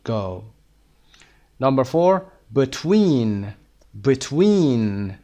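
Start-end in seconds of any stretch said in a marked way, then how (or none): 2.5-3.5 "Between" with a long, stressed "tween"; second-syllable stress. Shown as a demonstration. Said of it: "استرس روی". 4.1-5.1 "Between" with a long, stressed "tween"; second-syllable stress. Shown as a demonstration.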